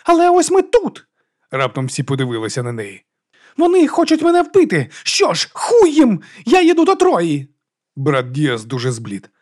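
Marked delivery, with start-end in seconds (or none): 0.0-7.5 very high, loud, near tears; enraged high yelling; furious outburst. A narrator's reading. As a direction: scream it, voice cracking.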